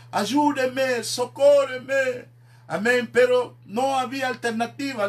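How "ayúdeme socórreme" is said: higher, drawn-out mock cry for help; child crying for help. Preacher voicing a trapped child's desperate cry. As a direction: plead like a trapped child, slowly. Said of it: "grito de un niño".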